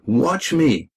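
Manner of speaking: high, eager call; excited shout. A narrator's reading. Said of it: "he shouted".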